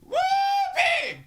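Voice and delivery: very high, loud Razorback whoop; hog call. Shown as a demonstration. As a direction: hoot it out like a stadium crowd. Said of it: "do a pretty decent hoot".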